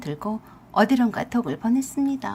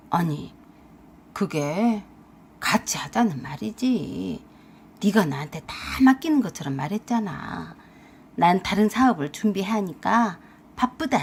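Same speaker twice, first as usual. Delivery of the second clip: lightly voiced husband, a little low; a hint of a shifty husband; defensive husband; 4 semitones lower than usual. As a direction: make feeble excuses as the husband.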